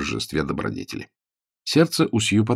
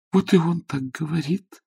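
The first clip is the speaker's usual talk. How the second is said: tender recollection; 8 semitones higher than usual. A narrator's reading. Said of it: "нежно припомнила Сью".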